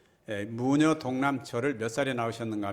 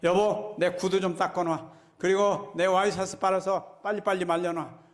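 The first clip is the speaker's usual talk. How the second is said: 호통치는 남편 흉내; 5 semitones higher than usual. Retold or imitated. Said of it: "오자마자".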